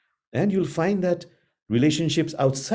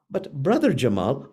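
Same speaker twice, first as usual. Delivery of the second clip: loving tone. Shown as a demonstration. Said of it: "with that tone of voice of love".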